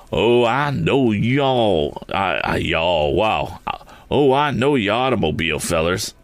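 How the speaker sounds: slow, drawn-out country storekeeper; amused, sly and rural; slow folksy storekeeper chuckling over it; knowing storekeeper. Acted. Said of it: "he said with a laugh".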